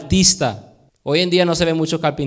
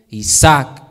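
usual speaking voice

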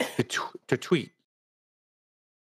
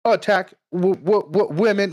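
mocking outrage; 6 semitones higher, 4 dB louder than usual. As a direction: gasp it out in fake shock, laughing. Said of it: "And they're like".

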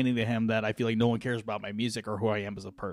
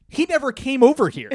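laughing; 4 dB louder than usual. Retold or imitated. Bouncer quote amid laughter.

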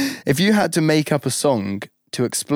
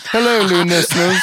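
bright rising hello to the new listeners; hammed-up hello; 3 semitones higher, 3 dB louder than usual. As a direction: greet them like a show host. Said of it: "That was really well executed".

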